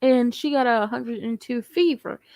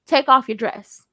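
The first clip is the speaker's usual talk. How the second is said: firm, louder command; said from the chest; 5 dB louder than usual. Shown as a demonstration. Coaching a hesitant man, firm command from the chest. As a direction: give the order with no question in it. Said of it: "If you're gonna say it, say it".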